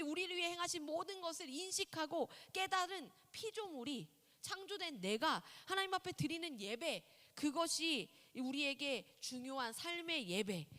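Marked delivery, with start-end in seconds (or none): none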